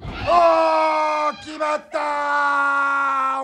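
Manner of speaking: long stretched ringside call; drawn-out shout. Real, not acted. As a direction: hold the last vowel in a long shout. Calling the finishing move.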